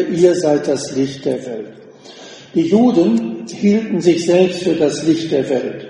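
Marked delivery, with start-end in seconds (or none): 0.0-1.7 „ihr“ leads, the rest falls away; stress on ihr. Shown as a demonstration. Preacher repeating the verse for emphasis, stress on „ihr“. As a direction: put the weight on „ihr“. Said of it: "Ihr, das ist im Grundtext betont".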